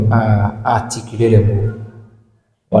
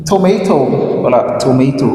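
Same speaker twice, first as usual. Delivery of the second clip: African accent. Shown as a demonstration. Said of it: "Gardons notre accent africain".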